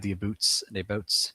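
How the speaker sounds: Western Canadian "boots" for "abouts", with a long vowel; Western Canadian accent. Shown as a demonstration. Eastern Canadian showing Western Canada's accent, Western Canadian "boots" vowel. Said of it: "have their own little accent going on".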